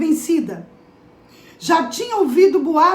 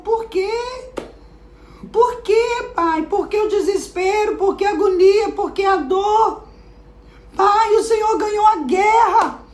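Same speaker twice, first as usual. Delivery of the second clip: put-on higher, pleading young girl's voice; bewildered daughter; 6 semitones higher than usual. Daughter pleads with her weeping father, high and bewildered. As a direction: ask why like a confused, adoring daughter.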